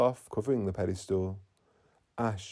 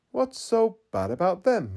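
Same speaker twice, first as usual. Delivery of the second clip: high, louder, puzzled asking; surprised question; 9 semitones higher, 6 dB louder than usual. Acted. Tracy puzzled why Mateo dislikes his work, surprised. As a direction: ask as if it makes no sense.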